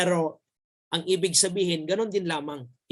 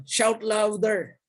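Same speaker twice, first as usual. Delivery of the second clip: mock taunt; 4 semitones higher, much slower than usual. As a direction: stretch out the jeer slowly. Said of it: "sinasabi niya rito".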